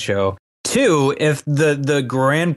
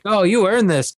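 mock praise; 7 semitones higher than usual.

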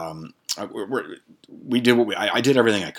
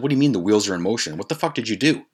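alarmed; 3 semitones higher, faster than usual. Retold or imitated. Quoting alarmed question.

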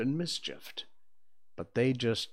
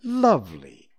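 delighted; 7 dB louder than usual. Acted. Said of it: "Wendy said".

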